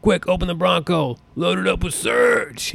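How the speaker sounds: put-on a teen rushing his buddy, playfully overdone; urgent mock hurry. Kid urging friends at the gas pump, mock urgent and high.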